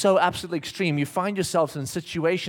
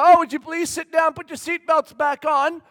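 higher, louder mock attendant request; mock flight attendant; 7 semitones higher, 6 dB louder than usual. Dad imitating the attendant telling passengers to sit, higher mock. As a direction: put on a sweet cabin-crew voice. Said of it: "they go".

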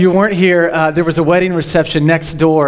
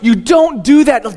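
scolding the dog; 6 semitones higher, 4 dB louder than usual. Retold or imitated.

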